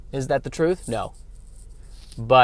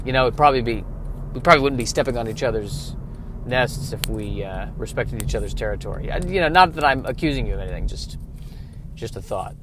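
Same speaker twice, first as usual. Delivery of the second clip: passive-aggressive. Acted. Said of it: "passive-aggressive".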